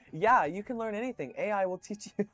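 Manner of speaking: high, loud, over-eager gushing; hammed-up tech-bro enthusiasm; mock AI bro. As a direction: gush like a true believer.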